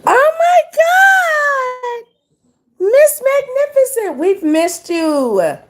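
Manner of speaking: very high, drawn-out cry of delight; high slow delighted squeal greeting the moderator; excited squeal. Real, not acted.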